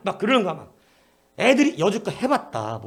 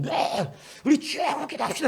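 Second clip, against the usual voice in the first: put-on cheery kids' answer; 9 semitones higher than usual. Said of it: "했더니".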